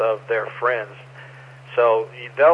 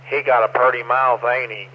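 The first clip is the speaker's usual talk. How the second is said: Deliverance hillbilly. Acted. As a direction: quote it like a backwoods hillbilly. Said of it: "you know, Deliverance".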